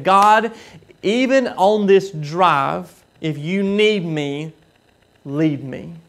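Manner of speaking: a driver praying aloud, slow and earnest; earnest prayer. Retold or imitated. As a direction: ask God slowly, heart open. Man retells his prayer while driving.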